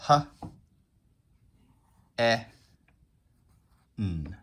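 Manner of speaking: "H, E, N" as separate phonics sounds, long pauses between; sounded out. Shown as a demonstration. Teacher segmenting hen for pupils, sound by sound. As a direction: say "huh", "eh", "nnn" one at a time. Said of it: "there are three sounds that you hear in hen".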